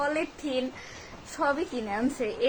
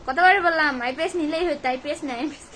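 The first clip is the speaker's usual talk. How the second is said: scolding mother; 2 semitones higher, 6 dB louder than usual. Retold or imitated. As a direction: nag like an annoyed mother. Mother scolding after power cut.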